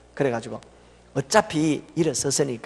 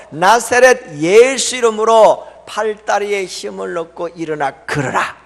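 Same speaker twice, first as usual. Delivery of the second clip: commanding prayer; 4 semitones higher, 6 dB louder, slower than usual. Retold or imitated. Retold healing command.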